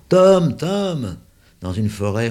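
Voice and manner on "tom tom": high loud call across the hill; children searching for their dog, calling. Acted. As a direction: shout for the lost dog. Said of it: "en appelant".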